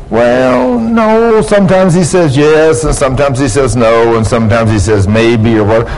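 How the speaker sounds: mock wishy-washy answer. Preacher voicing a stock answer on prayer, mock wishy-washy.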